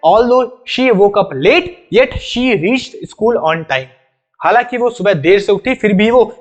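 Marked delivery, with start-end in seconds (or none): 0.1-3.8 very slow reading that puts yet after the pause; slow, deliberate model reading, yet spoken aloud. Shown as a demonstration. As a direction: show how the comma is spoken as yet. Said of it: "तो पढ़ेंगे कैसे?".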